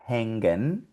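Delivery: "hängen" with audible H and open eh; H with A umlaut. Shown as a demonstration. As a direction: model "hängen" alone in German. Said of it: "La H con la A umlaut".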